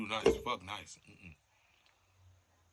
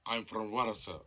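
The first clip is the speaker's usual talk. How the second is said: put-on Russian accent. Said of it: "Why you talking like that?".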